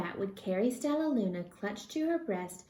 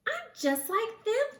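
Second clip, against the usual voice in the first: thinking; 14 semitones higher than usual. Acted. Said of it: "thought Stella Luna".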